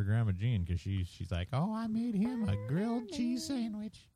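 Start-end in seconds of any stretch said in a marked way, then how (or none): 1.5-4.1 high airy mimicry of mom; mimicking mom. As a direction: play her as a chirpy mom. Mocking mom's quote.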